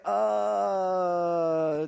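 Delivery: long, held stalling groan; dumbfounded drawn-out uh. Retold or imitated. Handcuffed driver at a loss, dumbfounded uh. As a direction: stretch out a mock-stunned uh.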